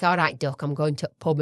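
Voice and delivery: casual Yorkshire greeting; Yorkshire accent. Shown as a demonstration. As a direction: demonstrate Yorkshire, dropping little words. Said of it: "It's like Yorkshire".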